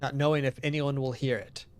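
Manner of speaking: even, measured farewell message; solemn game narration. Acted. Narrator making peace as the system fails, solemn read-aloud.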